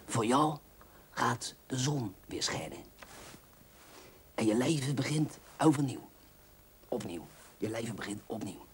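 hammed-up romance reading; dramatic reading. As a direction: read it out like a cheap romance. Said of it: "Ik zal dit voorlezen".

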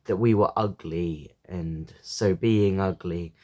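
measured poem recital with pauses; poetry reading. A narrator's reading. Reader sharing a poem about a father, measured recital. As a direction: read the poem line by line, pausing.

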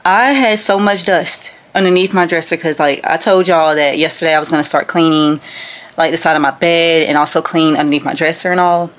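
gum in the mouth while talking; chewing gum. Real, not acted. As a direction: chew gum between the words. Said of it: "I'm chewing gum".

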